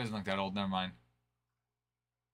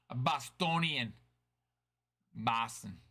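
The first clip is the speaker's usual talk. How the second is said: attempted Boston accent; slower than usual. Shown as a demonstration. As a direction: try Boston as a local would, unsure of the accent. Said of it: "I don't even know if my accent's right on that".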